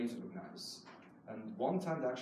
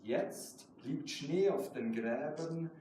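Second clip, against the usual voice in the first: measured German poetry recital, slow on key lines; slow reading of a German poem; slower than usual. Acted. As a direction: read it like your own poem at a reading. Poet reads own German poem.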